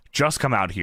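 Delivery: mock promo call-out to the ring. Host reading promo, calling Al out to the ring, shouting. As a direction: bellow the challenge like a wrestler.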